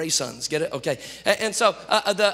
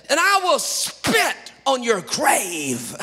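laughing threat; 7 semitones higher, 4 dB louder, slower than usual. Retold or imitated. Pastor adds a joke threat.

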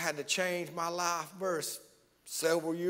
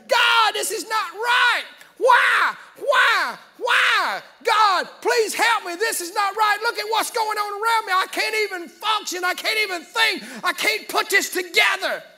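shouted, high pleading; desperate cry to God; 13 semitones higher, 10 dB louder than usual. Retold or imitated. A troubled believer crying out to God, pleading loudly. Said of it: "where you say".

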